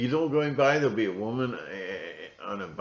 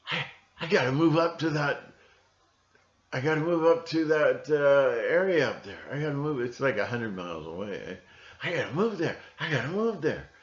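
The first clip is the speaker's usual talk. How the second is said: imitating the city guy; 4 semitones higher than usual. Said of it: "a guy in the big city who just goes".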